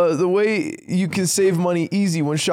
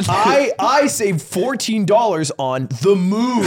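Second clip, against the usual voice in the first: slow, deliberate joke testimonial; improvised ad pitch, slowly delivered; mock ad testimonial; 3 semitones higher, slower than usual. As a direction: draw out the sponsor claim for laughs. Improvised testimonial in sponsor read.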